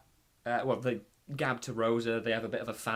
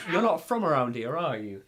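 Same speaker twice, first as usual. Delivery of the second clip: put-on Southern English accent; 4 dB louder than usual. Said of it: "put a Southern English accent on there".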